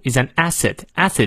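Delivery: "acid" stressed on its first syllable. Shown as a demonstration. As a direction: pick out "acid" as the key word. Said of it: "acid重读".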